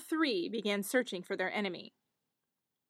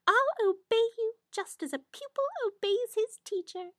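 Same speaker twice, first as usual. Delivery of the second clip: little hare promising obedience; 10 semitones higher than usual. Acted. Hare voiced in fairy tale.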